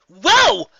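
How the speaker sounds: high, loud cry of alarm; startled whoa. Acted. Rainbow Dash dodging debris, startled high yelp. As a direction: yelp as debris flies at you.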